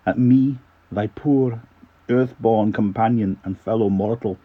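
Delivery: put-on light Scottish accent on verse; mildly Scottish poetry recital. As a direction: read the poem with a bit of Scots. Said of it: "in a bit of a Scottish accent".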